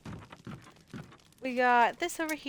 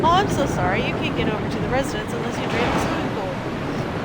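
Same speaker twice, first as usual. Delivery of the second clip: mock apology. Mocking the game's excuses.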